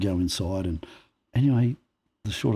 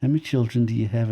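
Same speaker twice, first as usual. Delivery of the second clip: small talk; 5 semitones higher than usual. Retold or imitated. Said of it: "all small talk".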